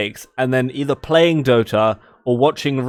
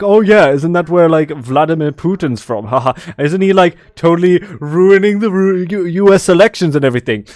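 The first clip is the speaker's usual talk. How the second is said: joking course mate; 4 dB louder than usual. Retold or imitated. Mimicking joking course mate to Russian.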